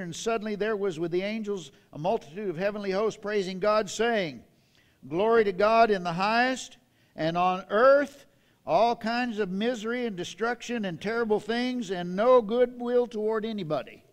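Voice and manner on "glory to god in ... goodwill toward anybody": loud sarcastic misquote; preacher hamming up the wrong version; mock misreading. Shown as a demonstration. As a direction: twist the verse for a laugh. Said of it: "let's read it the way it's written".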